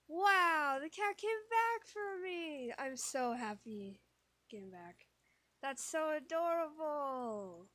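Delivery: very high, loud, slow squeal; squealing delight. Real, not acted. Player gushing that the cat saved them, high squeal.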